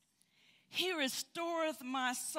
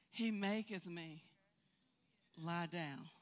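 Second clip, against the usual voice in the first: soft, hushed verse; 6 semitones lower, 6 dB quieter, slower than usual. Shown as a demonstration. Quoting the verse again softly.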